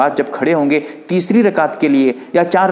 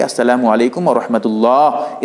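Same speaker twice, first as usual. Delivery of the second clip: demonstrated prayer salam; 5 semitones lower than usual. Shown as a demonstration. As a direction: recite the salam, stretching the final Allah. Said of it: "इस तरह कहते हुए सलाम फेरेंगे".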